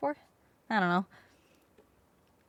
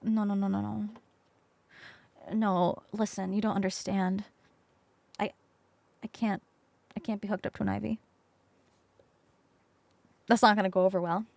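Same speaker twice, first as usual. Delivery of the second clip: pleading; 3 semitones lower, 5 dB quieter than usual. Retold or imitated. Begging to avoid IV.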